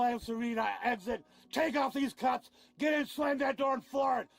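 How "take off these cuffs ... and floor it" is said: angry shouting. Real, not acted. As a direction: shout the demands. Arrestee shouting orders.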